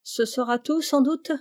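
halting, nervous stammer; frightened butcher stammering to the detective. Acted. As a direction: stumble over the words in panic. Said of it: "il bégaya".

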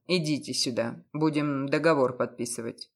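matter-of-fact, unbothered; calm. A narrator's reading. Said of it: "совершенно спокойно сказал".

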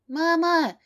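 put-on high, loud little girl's call; child calling out. A narrator's reading. Little daughter running in to find her mother, calling. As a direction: call for mama like a small child.

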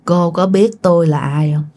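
low, ominous rumble; rumbling man's voice. Acted. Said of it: "cái giọng của ổng rền, rền, rền, rền". (giọng đàn ông trầm rền, bí hiểm)

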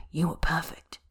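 soft, whispered reassurance; tender whisper. Acted. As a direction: whisper it gently to him. Bai's tender aftercare words.

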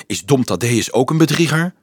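mildly alarmed question; slightly taken aback; startled. Acted. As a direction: ask it with a touch of shock. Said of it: "vroeg Frank geschrokken".

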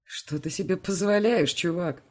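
a cocky, jeering challenge; mocking. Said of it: "раздаётся насмешливое".

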